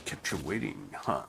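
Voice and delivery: a hint of a gravel-voiced spy; Solid Snake voice. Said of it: "Like Solid Snake".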